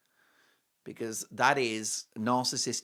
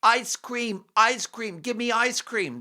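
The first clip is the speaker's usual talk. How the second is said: put-on high whiny little kid begging; mock toddler whine; 10 semitones higher, 5 dB louder, slower than usual. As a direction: beg like a three-year-old. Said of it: "they just sort of say".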